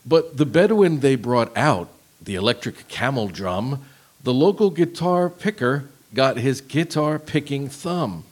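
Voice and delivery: slow monotone lyric reading; deadpan robot read; robotic voice. Shown as a demonstration. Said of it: "Read it again".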